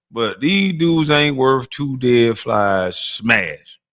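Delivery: drawn out, every word spelled out slowly; slow and deliberate. Shown as a demonstration. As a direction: lay it down slowly, word by word, for emphasis. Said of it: "I said".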